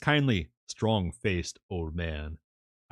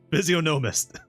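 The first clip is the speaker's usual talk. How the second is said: physiognomist said with a high laugh; 10 semitones higher, 5 dB louder than usual. Real, not acted. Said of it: "laughing retry after the stumble".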